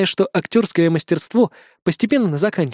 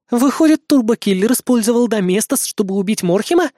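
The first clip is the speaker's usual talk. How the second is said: surprised; 5 semitones higher than usual. Acted. Azumi realises the killer used bleach, surprised. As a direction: realise it with a jolt, pitched high. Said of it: "удивилась Азуми".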